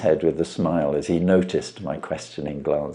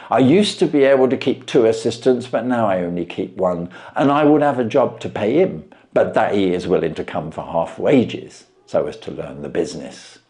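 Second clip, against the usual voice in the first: a plain man dumbfounded by the trick; Wilson voiced; 3 semitones higher, 3 dB louder than usual.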